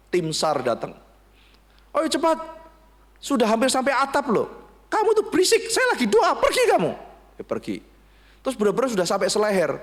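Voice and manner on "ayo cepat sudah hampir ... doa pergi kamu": frantic yelling. Retold or imitated. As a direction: yell over the rising water. Rescue team, man yells back.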